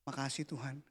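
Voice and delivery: hushed, breathy thanks to God; whispered prayer. Retold or imitated. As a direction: pray it under your breath. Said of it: "Aku doa gini". (doa berbisik penuh syukur)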